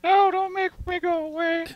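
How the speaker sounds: very high little plea; pleading headache character. Acted. Headache Greg facing Xanax, high pleading voice. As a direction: beg in a tiny squeak.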